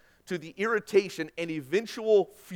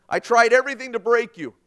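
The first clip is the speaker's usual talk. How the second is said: sergeant's confession; 7 semitones higher, 10 dB louder than usual. Acted. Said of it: "He went to that young man".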